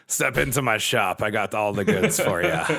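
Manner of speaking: gruff pirate merchant voice. Acted. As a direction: play a shady pirate shopkeeper. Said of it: "I went with a pirate voice on that".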